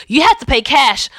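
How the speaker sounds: imitated New Jersey bus driver; badly faked New Jersey accent, insistent; awful New Jersey accent. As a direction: repeat it firmly in an amateur New Jersey accent. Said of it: "my awful New Jersey accent".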